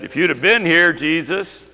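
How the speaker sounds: accusing mourners. Acted. Voicing friends' accusation.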